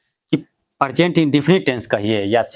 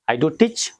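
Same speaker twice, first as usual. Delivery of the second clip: "do" lifted and pressed in "I do teach"; stress on do; 5 semitones higher, much slower than usual. Shown as a demonstration. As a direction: lean on "do" to insist on "I do teach". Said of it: "जोर दे के बोला जा रहा है".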